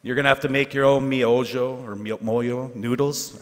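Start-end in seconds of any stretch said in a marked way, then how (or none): 2.0-3.4 "moyo noodles" drawn out slowly, testing the sounds; unsure, slowed-down "moyo noodles"; stumbling pronunciation. Real, not acted. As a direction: feel your way slowly through "moyo noodles". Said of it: "I've never been able to pronounce that".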